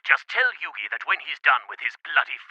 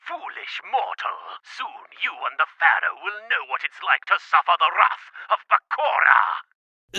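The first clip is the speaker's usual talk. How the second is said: booming echoing villain monologue; 5 semitones higher, 3 dB louder than usual. Acted. Villain threatens over the phone.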